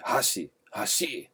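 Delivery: hashi slow with flat Portuguese stress; Portuguese accent. Shown as a demonstration. Teacher showing the Brazilian accent on hashi, slow. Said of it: "falar com acento português".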